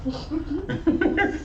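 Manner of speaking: words through real laughter; laughing at his own joke about leaving. Real, not acted. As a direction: chuckle while you say it.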